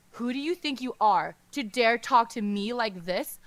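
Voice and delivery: loud, furious yell at the attacker; screaming in rage. Acted. Prince screams defiance at White No Face, loud. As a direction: scream it with your whole being. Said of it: "screams in his loudest voice, yelling with his entire being".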